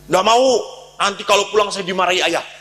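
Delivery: put-on high, loud frightened child's protest; scared refusal. Boy refusing his mother out of fear of father, high and loud.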